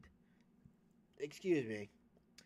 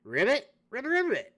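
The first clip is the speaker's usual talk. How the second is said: loud, higher rising ribbit; questioning croak; 6 semitones higher, 7 dB louder than usual. Pretend. Toad croaking a question at the dragon. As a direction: ask it like a curious toad.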